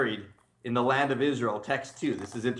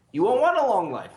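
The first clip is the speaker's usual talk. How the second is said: punchline through a laugh; 8 semitones higher, 6 dB louder than usual. Real, not acted.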